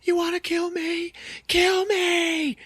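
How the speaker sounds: high, loud desperate dare; hammed-up grief-stricken scream; mock hysterical challenge. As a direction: scream at the killer to finish it. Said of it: "she's just like".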